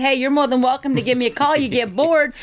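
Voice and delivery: ordinary talk, nothing marked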